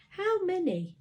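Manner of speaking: high pressing question; insisting. A narrator's reading. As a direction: push for an answer. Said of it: "she insisted".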